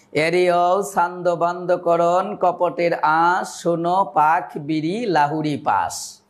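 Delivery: put-on slow, measured recital of old verse; chanting Charyapada lines slowly; poem recitation. Shown as a demonstration. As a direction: recite it slowly, leaning on the rhymes. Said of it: "ছন্দ দেখাতে চাই".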